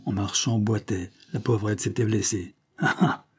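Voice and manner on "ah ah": short, high mock chuckle; spoken snicker; sneering laugh. A narrator's reading. Banquiste mocks the hurt child, sneering laugh. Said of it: "ricana le banquiste".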